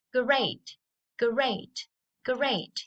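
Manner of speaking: put-on high, clear model word for kids to repeat; bright teacher model. Shown as a demonstration. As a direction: sing out each great for the class. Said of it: "let's listen and repeat after me".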